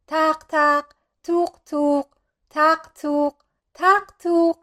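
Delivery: short, high knocks in the voice; knocking imitation. A narrator's reading. Storyteller sounds out knocks at the door, knocking imitation. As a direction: voice the knocks in evenly spaced pairs.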